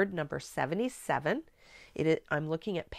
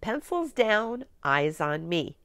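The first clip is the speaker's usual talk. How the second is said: teacher voice; 3 semitones higher, slower than usual. Shown as a demonstration. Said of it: "All right, here we go".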